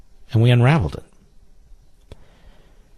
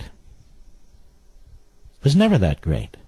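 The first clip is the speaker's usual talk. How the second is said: drawn out very slowly, each word dragged with scorn; slow mocking repeat; 2 semitones lower, much slower than usual. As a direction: mimic the quote slowly to ridicule it. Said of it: "And he talks like this".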